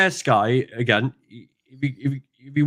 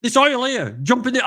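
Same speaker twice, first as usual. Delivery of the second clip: Yorkshire workmate; 13 semitones higher than usual. Retold or imitated. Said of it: "He says".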